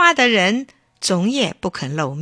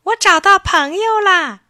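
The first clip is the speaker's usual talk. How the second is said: echo; 11 semitones higher, 7 dB louder than usual. A narrator's reading. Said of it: "对面传来同样的声音".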